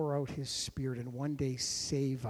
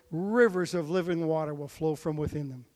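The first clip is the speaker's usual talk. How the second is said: louder, ringing call of "rivers"; loud proclamation; 5 dB louder than usual. Acted. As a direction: keep calling out to the crowd. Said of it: "he yells".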